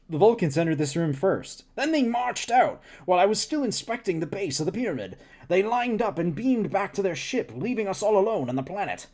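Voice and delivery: lightly voiced eager scientist. Scientist character voice.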